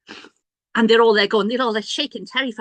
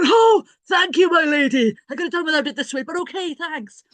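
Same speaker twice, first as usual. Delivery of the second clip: sarcastic thanks; 9 semitones higher, 5 dB louder than usual. Retold or imitated. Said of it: "And I go".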